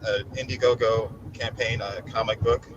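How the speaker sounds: talking while the chair shakes you; on a massage chair. Real, not acted. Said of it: "My voice is vibrating".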